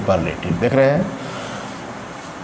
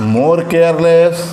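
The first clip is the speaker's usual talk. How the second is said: slow drill; much slower than usual. Shown as a demonstration. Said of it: "teacher drills the comparative form".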